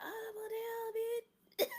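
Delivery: high, loud, drawn-out outburst; hammed-up offended reaction, loud and slow; mock indignation. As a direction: stretch it out in comic affront. Mock reaction to being told.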